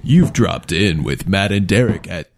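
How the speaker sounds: radio DJ voice. Pretend. Mock radio station intro.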